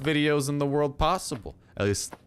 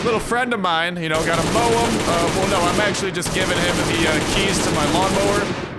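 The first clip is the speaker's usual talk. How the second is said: excited shout; 6 semitones higher, 6 dB louder than usual. Real, not acted. Gleefully gunning down a zombie.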